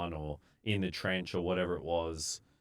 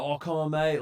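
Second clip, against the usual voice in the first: workers' complaint; 9 semitones higher, 6 dB louder than usual. Retold or imitated. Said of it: "And they're like".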